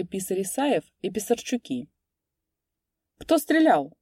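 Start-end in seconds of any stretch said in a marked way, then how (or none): 3.2-4.0 high, loud eager question; curious. A narrator's reading. Clerk runs out curious who fired. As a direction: ask eagerly, dying to know. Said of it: "с любопытством".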